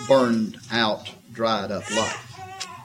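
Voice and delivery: slow, tearful, almost breaking; choked up. Real, not acted. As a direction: let the voice catch on the last words. Pastor moved by her empty life.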